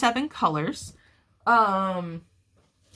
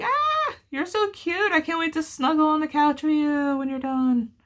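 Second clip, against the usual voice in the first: high, sugary voice to a beloved object; much higher, doting sing-song; cooing baby talk; 8 semitones higher than usual. Pretend. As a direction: coo at the blanket like it's a pet. Cooing at her finished blanket.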